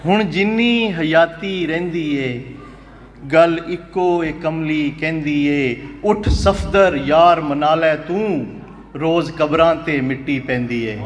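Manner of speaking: slow, measured verse with held syllables; poetry recital. Acted. Poet reciting Punjabi verse to a mushaira audience, slow recital. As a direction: declaim each phrase slowly, pausing between them.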